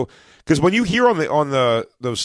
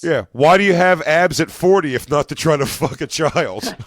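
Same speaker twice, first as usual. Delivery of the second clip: laughing mock quote; 2 semitones higher than usual. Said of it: "yeah, he goes".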